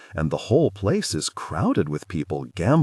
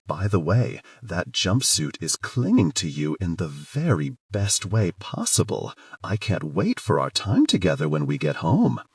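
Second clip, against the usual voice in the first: breathy voice. Acted. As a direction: breathe the words into his ear. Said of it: "I add in a breathy voice".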